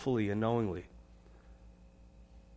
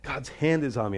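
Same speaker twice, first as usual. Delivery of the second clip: troubled confession; 6 dB quieter than usual. Retold or imitated. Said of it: "they're in this state and they say".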